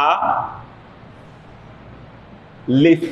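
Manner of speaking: "আ লিফ" in separated syllables, vowels unstretched; alif without elongation. Shown as a demonstration. Teacher showing learners the letter alif, no elongation. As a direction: break "আ লিফ" in two, no drawn vowel. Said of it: "কোনো টান নাই".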